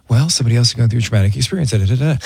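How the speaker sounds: brisk mock-clinical lecture, rattled off fast; psychologist mode. Host mimics niece's husband lecturing, fast and mock-clinical. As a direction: rush through it like a therapist on autopilot. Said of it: "Aaron goes into psychologist mode".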